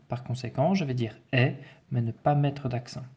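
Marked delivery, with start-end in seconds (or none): 1.3-1.5 "est" as an open è; open-vowel "est", like è. Shown as a demonstration. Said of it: "mon E ouvert".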